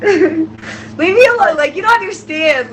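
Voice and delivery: fighting back happy tears; tearing up. Real, not acted. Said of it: "I'm already tearing up".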